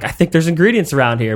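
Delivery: lightly voiced quacky cartoon duck; a hint of a squawky cartoon duck; Donald Duck. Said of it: "in fucking Donald Duck voice".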